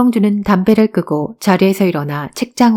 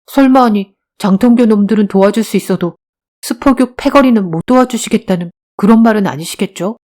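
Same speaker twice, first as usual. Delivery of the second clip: slightly raised, indignant question; challenging; 3 semitones higher, 3 dB louder than usual. Acted. Boy challenging teacher who hesitates to help, indignant. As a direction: press him with a touch of defiance.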